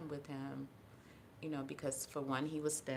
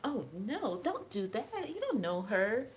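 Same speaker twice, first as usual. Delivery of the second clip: worried mom; 6 semitones higher, slower than usual. Retold or imitated. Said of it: "Her mom's like".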